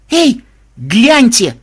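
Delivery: high, loud drawn-out squeal. A narrator's reading. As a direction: squeal for everyone's attention. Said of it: "взвизгнула Мелиса".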